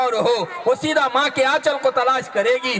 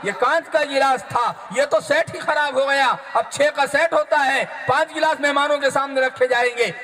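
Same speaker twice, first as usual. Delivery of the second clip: mother berating her daughter, faster at the end; scolding mother; 2 semitones higher than usual. Retold or imitated. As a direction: tell the girl off over the broken glass. Mother scolding daughter over broken glass.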